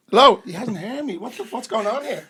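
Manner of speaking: loud, high, half-laughing protest; incredulous calling out. Retold or imitated. Player on the phone to his brother, loud exasperated protest. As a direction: call down the phone in disbelief. Frantic phone call to Richie.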